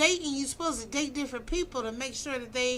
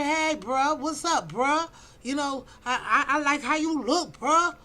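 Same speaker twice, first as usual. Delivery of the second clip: louder, casual pickup line with a rising bruh; mock guy hitting on her; 4 dB louder than usual. Mocking men who approach her, casual pickup voice. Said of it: "Coming out here".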